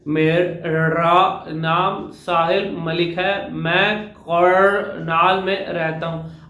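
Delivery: very slow, every sound overpronounced; self-conscious, placing each letter deliberately; overcareful speech. Shown as a demonstration. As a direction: stiff over-articulated r's and l's. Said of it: "ऐसे क्यों बोला".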